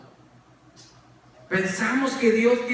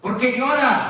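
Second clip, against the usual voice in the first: louder accusing question; rising reproach; 3 semitones higher, 4 dB louder than usual. Retold or imitated. Las hermanas reclaman al Señor, más fuerte. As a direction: press him, half scolding. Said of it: "diría Marta y María".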